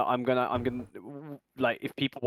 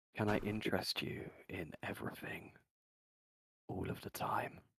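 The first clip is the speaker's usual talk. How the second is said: whispered, lower and quieter; 3 semitones lower, 12 dB quieter than usual. Voicing a character leaning into another's ear: whispering in character. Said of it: "I'm just gonna whisper to him".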